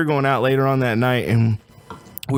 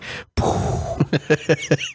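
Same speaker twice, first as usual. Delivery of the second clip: paralysis sound effect. Retold or imitated. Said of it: "Did he make the sound effect?".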